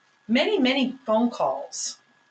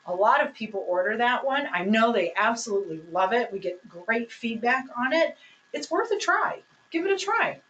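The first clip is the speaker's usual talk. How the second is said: encouraging recommendation. Shown as a demonstration. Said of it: "you can still say".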